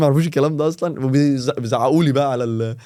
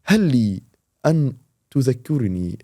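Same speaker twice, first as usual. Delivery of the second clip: mock formal voice note; 3 semitones lower than usual. Joking voice note to a friend, mock formal. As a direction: ham it up like a stiff scholar. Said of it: "صحي واحد صاحبي ... بفويس نوت".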